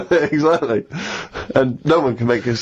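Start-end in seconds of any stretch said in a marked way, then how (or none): 0.1-0.8 laughing. Real, not acted. Laughing agreement.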